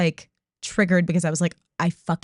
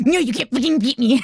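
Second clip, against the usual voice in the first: competitive outburst; 6 semitones higher than usual. Retold or imitated. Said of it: "I was like".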